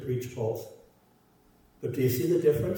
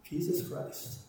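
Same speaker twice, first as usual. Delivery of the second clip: lightly voiced product pitch, lifting on the price; hint of an advertiser selling a product; mock sales pitch with deliberate pauses. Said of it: "thought that we are selling a product".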